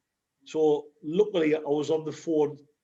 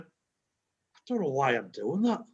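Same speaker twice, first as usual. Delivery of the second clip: amused at himself; 3 semitones lower, slower than usual. Retold or imitated. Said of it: "laughed at myself and went".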